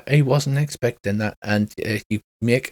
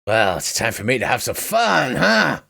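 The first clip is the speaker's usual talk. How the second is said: horny cowboy. Acted. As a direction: play a lecherous cowboy villain relishing the fun. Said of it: "he sounds like a horny cowboy".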